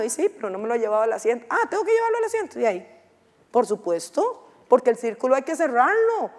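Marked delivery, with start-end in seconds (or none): 1.5-2.6 high, fast imitated surveyor catching on; mock realization. Lecturer imitating a surveyor who finally understands, high and fast. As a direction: play the surveyor who just got it, pitched up high and quick.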